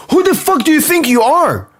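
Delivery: high, incredulous demand; indignant disbelief. Real, not acted. Fan scolding Barcola for no run-up, high indignant disbelief. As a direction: scoff at his arrogance.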